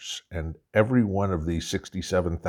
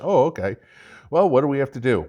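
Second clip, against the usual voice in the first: high and louder, faux-helpless question; mock naive reply; 6 semitones higher, 5 dB louder, faster than usual. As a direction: act like a clueless European. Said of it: "acted mock dialogue, Europe's reply".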